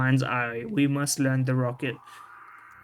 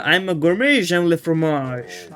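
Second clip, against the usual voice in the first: put-on terrible French accent; 2 semitones higher, 3 dB louder than usual. Claiming to be a gourmet, terrible French accent. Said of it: "my terrible French accent".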